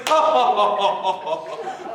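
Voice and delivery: knee-slapping taunting laughter; mocking laugh. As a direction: laugh at the fooled villagers. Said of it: "the boy slaps his knees".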